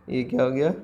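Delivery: asked again through a laugh; amused retake of the question. Shown as a demonstration. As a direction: laugh as you repeat the question.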